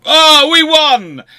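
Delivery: drawn-out, high-pitched victory yell; triumphant shout. Pretend. Lecturer mimicking a treaty winner's gloating, triumphant mock shout. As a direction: scream it out long and loud like you've won. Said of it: "it's lovely to shout and scream".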